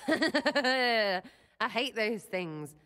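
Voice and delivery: slow words through a laugh; laughing at the thought of earwigs, stretched out. Real, not acted. Sera jokes to her lover, laughing slowly.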